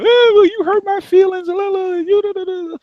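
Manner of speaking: mock a whining crybaby; mocking whiny crier. Mocking women who cry over hurt feelings, whiny voice. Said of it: "you crying because your feelings hurt".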